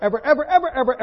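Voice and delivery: mock-dramatic insistence; emphatic rising ever. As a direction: pile on the evers with a comic crescendo. Never say God's name, ever.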